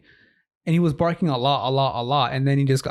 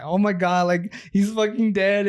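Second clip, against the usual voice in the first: retold panic, raised and drawn out; retold freaking out; 4 semitones higher than usual. Kid home alone finds his dog dead, mildly freaking out. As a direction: relive the panic, mildly acted. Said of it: "like, freaking out".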